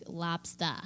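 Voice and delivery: put-on Maine accent. Shown as a demonstration. Friend showing what Maine sounds like, Maine accent. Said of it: "When I think Maine, I hear".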